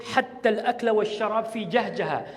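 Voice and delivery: imitated Sudanese Arabic accent. Man quoting his cousin's text from Sudan, Sudanese accent. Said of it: "In her Sudanese accent".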